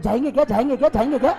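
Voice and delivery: laughing, eager whispered-up plotting; a friend egging on another, laughing. Retold or imitated. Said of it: "वो अपने friend को बोल रहा है".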